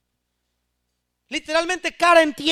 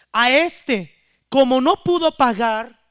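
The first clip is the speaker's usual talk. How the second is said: forceful sermon narration, louder; loud preaching; 6 dB louder than usual. Acted. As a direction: drive the story home to the congregation.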